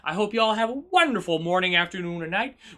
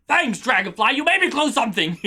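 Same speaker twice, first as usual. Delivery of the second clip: mock blame. Real, not acted. Mock blame, ends laughing.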